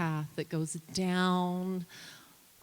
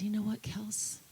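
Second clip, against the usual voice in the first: a hushed, higher whisper of encouragement; tender whisper; 7 semitones higher, 4 dB quieter than usual. Retold or imitated. Mother encouraging her hurt daughter at the creek, whispering. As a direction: breathe it to her like a promise.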